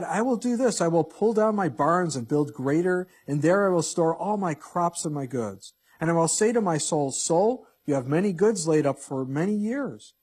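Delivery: a rich fool gloating over his barns; boastful rich man. Acted. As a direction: crow about your plans like a smug rich man.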